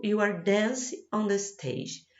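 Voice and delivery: you are dancing on the stage, said slowly and clearly; slow example sentence. Shown as a demonstration. Teacher reading an example slowly to students. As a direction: read the example slowly for the class. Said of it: "Olha o exemplo".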